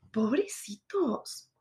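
soft unvoiced whisper, slowed right down; whispered pity. Real, not acted. Whispering pity for her ex-partners. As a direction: breathe it out like a sorry secret.

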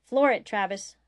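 loud, urgent order; called out. A narrator's reading. Woods ordering Travis to speed to the ship, called out. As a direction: bark it to the pilot. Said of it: "Woods called out".

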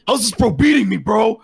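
acted frustrated outburst. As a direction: complain in disbelief, pitch pushed up. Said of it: "he's getting a little frustrated".

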